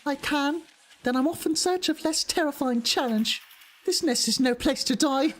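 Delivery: high-pitched put-on British character voice; inner city British accent. Streamer voicing a weary game character, high British accent. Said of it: "inner city British accent or something".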